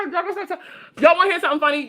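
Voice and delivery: high voice breaking up with laughter; laughing. Real, not acted. Streamer about to tell chat a funny story, laughing.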